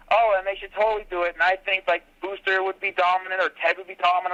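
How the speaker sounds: mock fan gossip, quick; eager fan. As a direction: rattle on like an excited fan. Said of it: "they're talking about how".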